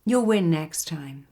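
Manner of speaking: high bright lift on "Well", then loud encouragement; peppy consoling cheer; upbeat cheerleader. Retold or imitated. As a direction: cheer them on after a loss. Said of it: "They go".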